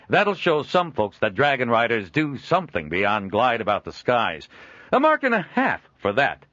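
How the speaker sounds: a jovial trader chuckling at his own likeness; Joel, amused trader. Acted. Joel making offer.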